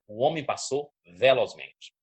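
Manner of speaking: "velozmente" said firmly to suggest speed; swift delivery on "velozmente". Shown as a demonstration. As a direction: demonstrate intonation, punching "velozmente" as something swift. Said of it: "entonação pra cada tipo de coisa".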